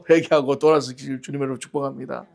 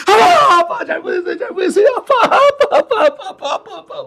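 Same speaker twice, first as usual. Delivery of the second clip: put-on very high, loud childish pleading cry; child's wailing plea; 8 dB louder than usual. Preacher voicing himself as a boy begging dad after one stroke, high wailing. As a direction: wail like a little boy after the first lash.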